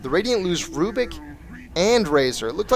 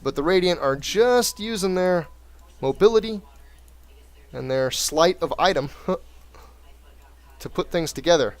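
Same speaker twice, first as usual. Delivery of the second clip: lively esports caster narrating the match; play-by-play commentary; 2 semitones lower than usual. Acted. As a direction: call the game like a caster. Casting a replay like commentator.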